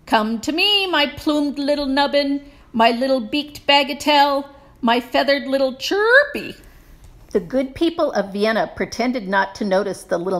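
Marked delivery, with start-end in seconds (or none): 0.0-6.5 higher coaxing sweet-talk; coaxing call. A narrator's reading. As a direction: lure the bird with pet names. Coaxing lost bird.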